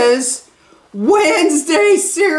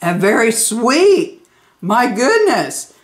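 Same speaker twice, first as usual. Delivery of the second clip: crunchy food in mouth; talking while chewing; 4 semitones lower than usual. Real, not acted. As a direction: mouth partly full of cereal. Seen 2: Holds cereal bowl and spoon, mouth working between bites while talking.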